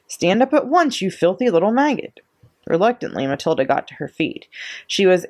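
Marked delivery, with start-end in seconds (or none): 0.1-2.2 high-pitched angry command; acted scolding, pitched well up; barked order. A narrator's reading. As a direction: bark it like a cross headmistress. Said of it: "she barked".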